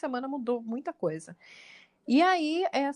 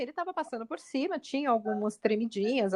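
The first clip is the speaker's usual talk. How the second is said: ordinary delivery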